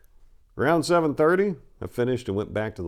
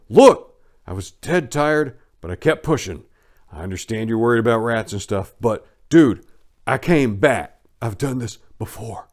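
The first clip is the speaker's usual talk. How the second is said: retold comeback; 2 semitones higher, 7 dB louder than usual. Manager yelling, narrator pushes back.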